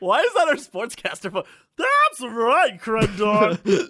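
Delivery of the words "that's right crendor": put-on slow slurred old drunk; old drunk man voice. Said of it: "my old drunk man voice".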